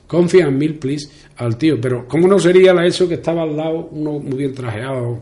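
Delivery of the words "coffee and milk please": put-on Coffee and milk please in a broad Spanish accent; mock bad English with a Spanish accent; macaronic English. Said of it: "el inglés macarrónico mío".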